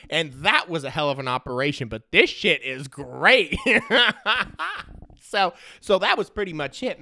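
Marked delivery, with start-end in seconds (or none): 1.9-3.6 laughing delight. Real, not acted. Delighted by the scheme. 3.6-5.0 high delighted laugh; high burst of laughter. Real, not acted. Podcaster cracking up at the trash-can scheme, high laugh.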